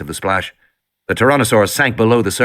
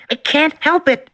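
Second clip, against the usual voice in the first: whisper. A narrator's reading. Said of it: "she whispered".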